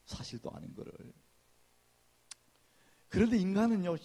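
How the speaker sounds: normal talking voice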